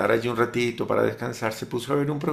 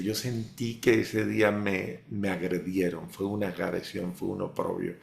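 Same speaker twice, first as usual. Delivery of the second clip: hurt, hushed; 5 semitones lower, 5 dB quieter than usual. Retold or imitated. A wounded man tells of offense, hushed and low. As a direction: drop low and soft, wounded. Leo's hurt words retold.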